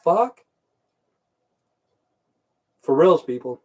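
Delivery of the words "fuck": slow stunned disbelief. Retold or imitated. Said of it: "And I went".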